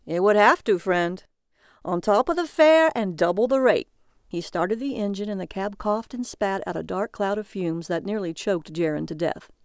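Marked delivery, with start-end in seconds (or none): 0.1-3.9 lightly voiced brash cabbie; a hint of the cab driver.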